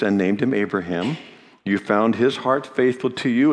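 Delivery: measured reading from the Bible; scripture reading. Acted. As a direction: read the prayer plainly and solemnly. Reads Nehemiah's prayer aloud.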